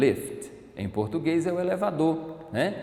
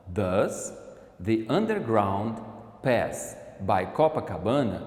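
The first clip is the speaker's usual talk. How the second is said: slow, word by word; 3 semitones lower, slower than usual. Shown as a demonstration. Teacher repeating the question slowly for the class. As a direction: break the question into slow chunks. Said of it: "repeats the question slowly".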